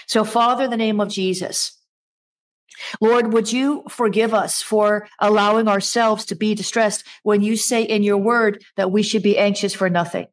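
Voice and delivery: earnest pastor praying aloud; congregational prayer. Real, not acted. Pastor praying over the distressed congregation, earnest prayer. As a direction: pray it out sincerely for the people.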